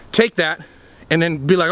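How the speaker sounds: ordinary talk, nothing marked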